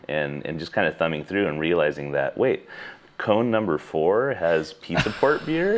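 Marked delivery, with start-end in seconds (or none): 2.4-5.8 slow, amazed realization; wait, is that really there; surprised. Retold or imitated. Surprised discovery in the park.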